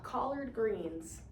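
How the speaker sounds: very slow, syllables split apart; drawn-out teaching syllables; slow syllable clapping. Shown as a demonstration. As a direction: clap out each syllable slowly. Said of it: "Let's clap".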